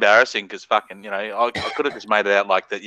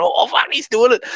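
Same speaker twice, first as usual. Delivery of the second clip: excited; 11 semitones higher, 3 dB louder than usual. Retold or imitated. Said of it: "all going".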